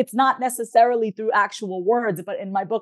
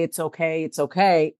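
mildly soothing imitation of a father; calming, soothing; 3 semitones lower than usual. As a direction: lightly voice a parent comforting a child. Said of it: "His voice was so calming and soothing".

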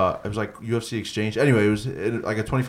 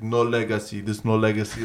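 imitated Russian accent, softer voice; Khabib's Russian accent; 5 dB quieter than usual. Co-host mimics Khabib dismissing the legacy fight, Russian accent. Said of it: "he Khabib in his Russian accent".

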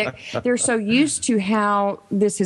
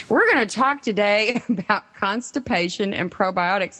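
amused laughter. Real, not acted. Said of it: "I'm laughing because".

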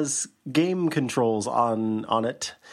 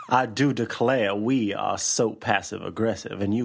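put-on Southern belle accent; 3 semitones lower than usual. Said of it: "put a stop to that accent".

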